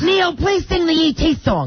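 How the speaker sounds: high, drawn-out fan plea; calling out. Pretend. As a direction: holler it like a fan at a concert. Plays fan calling out to singer.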